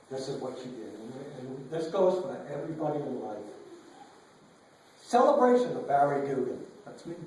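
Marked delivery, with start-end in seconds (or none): 5.0-7.2 poem reading. Acted. Reads the poem aloud.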